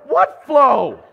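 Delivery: loud, high what flow with a laugh; baffled and cracking up; mock confused outburst; laughing bewilderment.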